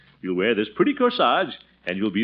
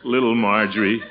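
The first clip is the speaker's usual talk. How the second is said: chuckling; 2 semitones lower, slower than usual. Acted. Uncle chuckles fondly over niece.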